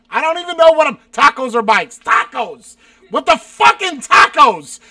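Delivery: loud, incredulous outburst; exasperated yelling. Real, not acted. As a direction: shout it, completely fed up with tacos. Fed up with repeated tacos questions.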